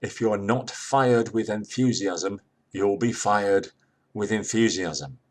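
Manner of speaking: slow, stressing fired each time; reading the notice. Shown as a demonstration. Teacher reading a workplace notice aloud, slow with stress. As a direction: weigh both fireds slowly. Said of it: "Here's a notice".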